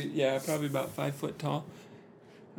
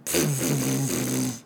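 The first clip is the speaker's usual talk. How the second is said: voiced drone; 5 semitones lower than usual. Shown as a demonstration. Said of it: "kind of a".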